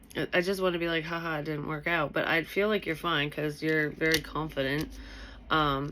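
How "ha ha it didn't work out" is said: ordinary delivery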